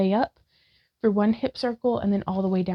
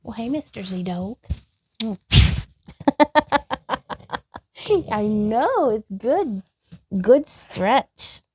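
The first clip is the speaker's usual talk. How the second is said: bright, louder pet greeting with a laugh; greeting the dog; 4 dB louder, slower than usual. Real, not acted. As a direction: cheer on the dog.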